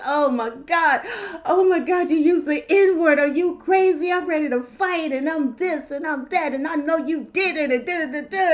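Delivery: hammed-up indignant tirade; mock outrage. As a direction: rattle it off like someone worked up. Acts out people overreacting to word.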